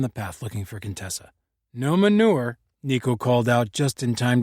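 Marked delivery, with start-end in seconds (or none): 1.7-2.6 higher, louder call across the yard. Acted. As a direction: shout after the running dog. Nico calling out to the dog.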